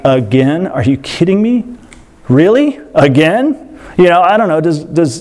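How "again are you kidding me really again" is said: mock eye-rolling God. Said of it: "he rolls his eyes a lot".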